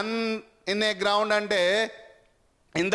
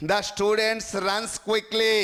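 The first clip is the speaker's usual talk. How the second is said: slow reading; much slower than usual. Shown as a demonstration. Reading the exam sentence slowly.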